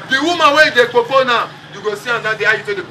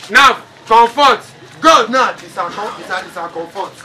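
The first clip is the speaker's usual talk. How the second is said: slow deliberate naming; 3 semitones lower than usual. Shown as a demonstration. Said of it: "we say na Comfort".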